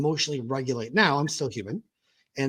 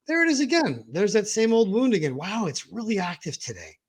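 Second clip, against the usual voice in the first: wondering self-observation; 6 semitones higher than usual. Retold or imitated. Acts curious self-observer noticing.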